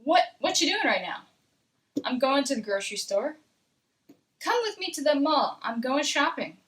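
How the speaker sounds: slightly quickened dialogue read. Shown as a demonstration. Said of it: "This time a little faster".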